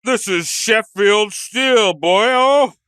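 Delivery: slow, hammed-up British taunt; mock British accent. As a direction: drag it out loudly in a British accent. Acts British policeman taunting Houdini.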